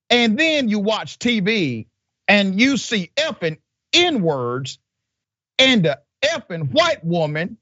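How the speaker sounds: high mocking old-school voice; imitating the jailer. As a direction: lampoon the jailer's rambling. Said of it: "this is how he talks".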